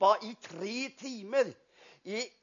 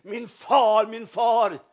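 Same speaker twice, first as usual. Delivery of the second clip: retold cry; 5 dB louder, slower than usual. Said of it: "han skrek".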